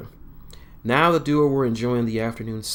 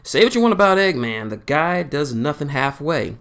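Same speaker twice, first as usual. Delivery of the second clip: loud, higher admiring exclamation; emphatic; 5 semitones higher, 6 dB louder than usual. A narrator's reading. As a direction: sell it with wry admiration. Sonic praising rival's excess.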